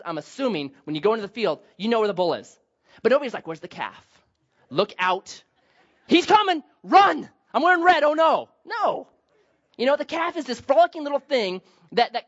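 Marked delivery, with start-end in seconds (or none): 3.5-9.1 hammed-up panicked yelling, high and loud; mock panic. Mocking people fleeing a harmless calf, hammed-up panic. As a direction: pretend to run screaming from a calf.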